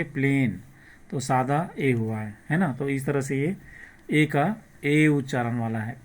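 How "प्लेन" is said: "प्लेन" with a long ay vowel; ए sound demo. Shown as a demonstration. Teacher answers how we will read it, ए-sound demo. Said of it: "क्या पढ़ेंगे?".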